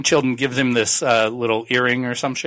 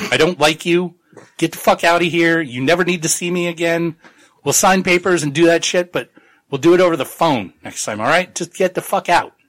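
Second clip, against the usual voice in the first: higher-pitched, irritated telling-off; mock angry dismissal; 4 semitones higher than usual. Tagomi throwing the annoying Nazi out, mock angry dismissal. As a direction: play-act sending someone packing, mildly heated.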